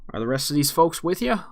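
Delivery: lightly voiced bartender, rising pitch; a hint of a nosy barkeep. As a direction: ask as a curious barkeep, lightly put on. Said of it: "the bartender is looking at you".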